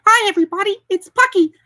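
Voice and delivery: a tiny cartoon mouse greeting everyone; Mickey Mouse like. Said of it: "He sounds kinda like Mickey Mouse".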